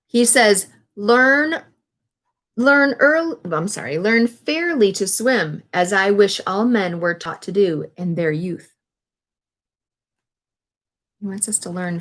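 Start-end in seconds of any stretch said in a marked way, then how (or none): 1.0-8.8 put-on careful read-aloud to young listeners; reading a quote aloud. A narrator's reading. Reads Franklin quote aloud.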